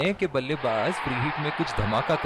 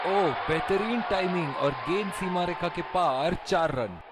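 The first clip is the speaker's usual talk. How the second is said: raised, thrilled call of a boundary; excited cricket commentary; 3 semitones higher than usual. Acted. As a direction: shout it as the ball races away. Four hit, commentator shouts.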